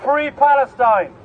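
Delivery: slow, drawn-out rally chant; rallying shout. Real, not acted. Rally speaker urging the crowd to shout along, rallying shout. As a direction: lead the crowd in a slow call. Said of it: "I want you to shout with me".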